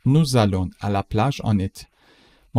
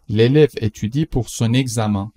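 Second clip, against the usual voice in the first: slow, careful example sentence; slow model read; 3 dB louder than usual. Shown as a demonstration. Teacher reads the example slowly to the class. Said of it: "teacher models slowly".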